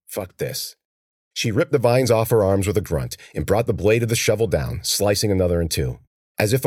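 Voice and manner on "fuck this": inner thought. A narrator's reading. Cece thinking to herself while surrounded by vines. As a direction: say it to yourself, hushed. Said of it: "she thought".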